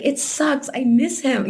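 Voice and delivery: real grief rising, pitch lifted; getting emotional. Real, not acted. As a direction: let missing the dog catch you. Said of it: "I'm gonna get emotional now".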